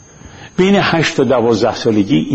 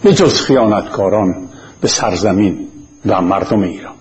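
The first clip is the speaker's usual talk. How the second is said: formal opening address; 2 semitones lower than usual. Real, not acted. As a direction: address all Iranians with deliberate pauses.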